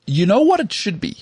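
eager and quick to interrupt; excited. Real, not acted. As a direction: jump in with a sudden idea. Sudden idea in chat.

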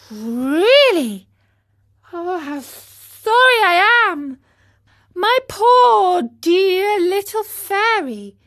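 loud, high, wailing grief; anguished. Acted. Pinocchio laments his sick fairy, anguished. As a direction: cry out in sorrow for her.

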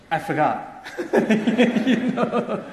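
put-on giggled little boy's admission; sheepish child laugh. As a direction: laugh it off like a caught kid. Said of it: "A child will actually become nervous".

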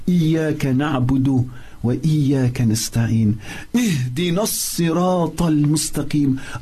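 rapid, flowing recital of the verse; quick Arabic recitation; quick Quran recitation. Acted. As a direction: recite it fast and fluent from memory. Fatiha recitation.

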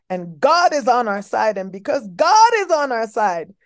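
building to a rousing shout; rally speech. Acted. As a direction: preach it, rising to a cheer.

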